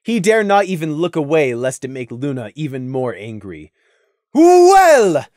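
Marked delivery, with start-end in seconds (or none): 4.3-5.3 high, loud whip-crack bark; sharp royal bark. A narrator's reading. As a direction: snap at him to answer. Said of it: "Luna barked".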